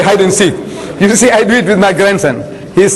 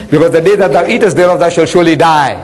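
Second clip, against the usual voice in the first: God's stern command; 2 semitones lower, faster than usual. Acted. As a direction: boom it out like a stern God.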